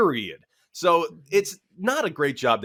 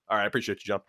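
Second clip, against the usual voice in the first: passive-aggressive thanks; 6 semitones lower, 5 dB quieter, much faster than usual. Retold or imitated. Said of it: "passive-aggressive".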